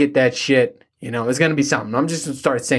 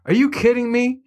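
disbelief; 9 semitones higher than usual. Retold or imitated. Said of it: "I'm just like".

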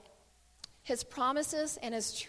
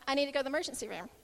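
very fast, offhand retelling; casual, not alarming; much faster than usual. Retold or imitated. Injured son telling his mom, understated. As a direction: rattle it off as if it were nothing. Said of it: "it was just kinda like".

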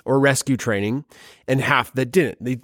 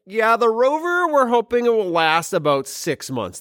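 lightly voiced cautious engineer, higher at first; mock NASA engineer; 8 semitones higher than usual. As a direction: imitate a modest mission planner. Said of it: "NASA's missions are like".

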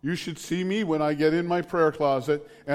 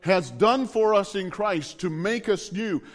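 raised-pitch sermon delivery with punched key words; fervent preaching; 4 semitones higher than usual. Real, not acted. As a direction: preach it with conviction, building through each list. Preaches with force to congregation.

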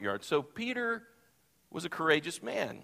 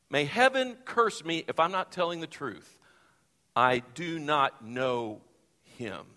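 preacher acting out Peter's desperate oath; solemn oath. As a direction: spell out the denial word by word.

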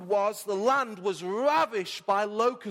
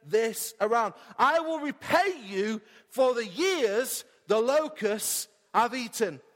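voicing God; slower than usual. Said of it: "God says".

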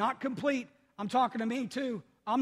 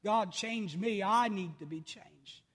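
slow quiet prayer; much slower than usual. Retold or imitated. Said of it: "I ask God all the time".

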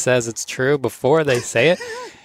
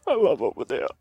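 near tears; 9 semitones higher, 4 dB quieter than usual. Retold or imitated. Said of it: "about to cry".

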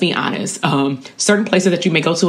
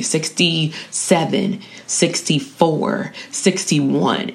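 slow, spaced-out counting, as if working it out; deliberate counting; much slower than usual. Pretend. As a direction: count slowly, a pause after each number. Acts out counting back by threes.

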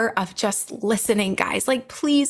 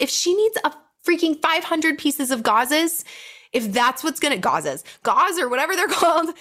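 heated; 5 semitones higher than usual. Real, not acted. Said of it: "I'm getting heated here".

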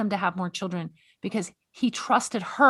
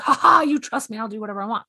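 smug mocking; 4 dB louder, faster than usual. World's version of trust, mocked smugly. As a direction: play the cocky, selfish taker. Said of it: "that's the world's version of it".

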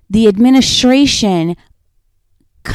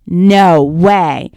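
lower, louder groan of dismay; car owner who was just robbed, dismayed no way; 4 semitones lower, 5 dB louder than usual. Retold or imitated. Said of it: "the guy who gets his car robbed says".

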